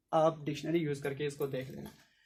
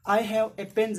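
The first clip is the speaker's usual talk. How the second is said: louder slow example; example read; 4 semitones higher, 5 dB louder, much slower than usual. Shown as a demonstration. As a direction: state the example clearly. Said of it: "तब मेरे पास एक object है". (ज़ोर से उदाहरण)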